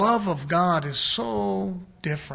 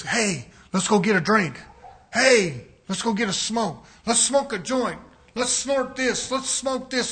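a light, casual tempter's voice; a hint of a party buddy luring; tempting devil; 2 semitones higher than usual. Shown as a demonstration. Preacher showing how people imagine the devil, a casual lure. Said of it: "the voice of the devil is gonna talk to you like this".

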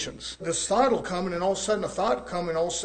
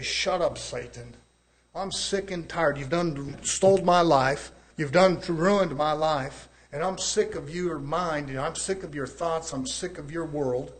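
slow, firm rebuke of the devil; telling Satan off; slower than usual. Pretend. Preacher voicing a believer rebuking Satan, slow and firm. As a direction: spit it out at Satan, fed up.

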